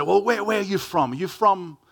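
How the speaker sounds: humorous questioner. Retold or imitated. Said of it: "more sort of humorously, people say".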